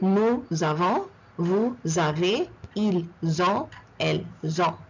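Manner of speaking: nous avons, vous avez, ils ont, elles ont, each second word opening on Z; measured model of nous avons to elles ont, linking with Z; liaison drill. Shown as a demonstration. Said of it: "the S always goes into the second word".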